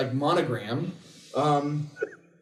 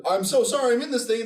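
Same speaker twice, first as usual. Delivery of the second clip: mock innocent kid; 6 semitones higher than usual. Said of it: "kid gets shot and killed who's like".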